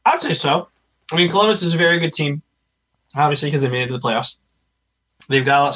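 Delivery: talking around a cough drop; words round a lozenge; mouth full. Real, not acted. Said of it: "I have a cough drop in my mouth".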